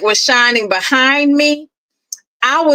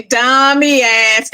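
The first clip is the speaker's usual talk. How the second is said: sis voice; slower than usual. Retold or imitated. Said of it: "in sis voice".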